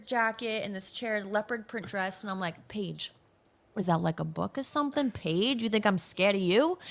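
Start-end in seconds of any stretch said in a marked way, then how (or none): 2.7-6.8 put-on a light Boston mob wife accent, tough and teasing; thick Boston accent. Boston mob wife taunting the champion Paige in her promo, light Boston accent. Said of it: "this thick Boston accent".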